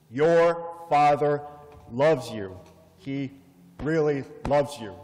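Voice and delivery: put-on slow, emphatic words in a light Spanish accent. Doorman stresses a father's love, slow, light Spanish accent. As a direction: press each word, a touch of Spanish accent. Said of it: "he spoke with a Spanish accent".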